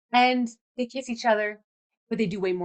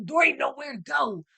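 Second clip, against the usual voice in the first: put-on horrible cowboy accent; 4 semitones higher than usual. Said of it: "That's a horrible accent".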